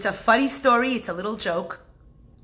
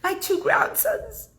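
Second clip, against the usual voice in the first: frantic scream; 10 semitones higher than usual. Acted. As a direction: cry out in terror for the grandsons. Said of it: "he starts to scream".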